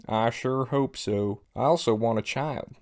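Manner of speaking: lightly put-on slow Southern accent; a hint of a Southern drawl, drawn out. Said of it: "southern drawl".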